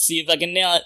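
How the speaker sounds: failed squawky duck voice attempt, breaking into laughs; Donald Duck voice. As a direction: try a Donald Duck voice and crack up. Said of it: "bad Donald Duck impression".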